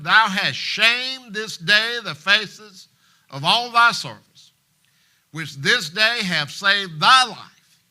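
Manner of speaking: loud, slow, forceful scolding; angry rebuke. Acted. General Joab rebuking King David, loud angry scolding. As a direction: hammer each line at the king.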